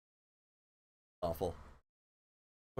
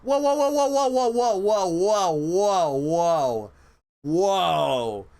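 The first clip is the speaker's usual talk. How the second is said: whoa; 5 semitones higher, 7 dB louder, much slower than usual. Real, not acted. Streamer calming after near copyright strike, loud whoas. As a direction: settle yourself down loudly.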